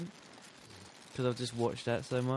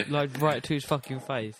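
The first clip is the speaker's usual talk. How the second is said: laughing; 3 semitones higher, 4 dB louder than usual. Real, not acted. Laughing while telling.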